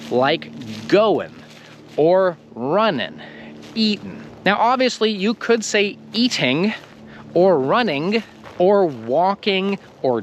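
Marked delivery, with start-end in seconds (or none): 0.9-4.2 goin' runnin' eatin' with no G at the end; teacher showing relaxed native endings, g dropped. Shown as a demonstration. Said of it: "words that end with I N G".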